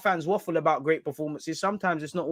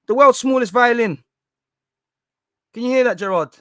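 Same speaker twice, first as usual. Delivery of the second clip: mock grand presentation; 8 semitones higher, 8 dB louder than usual. Mock presents a tiny violin.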